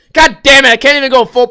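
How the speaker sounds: frustrated yell at the sky; exasperated shout. Real, not acted. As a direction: blow up at getting misquoted. Swearing at a misquote.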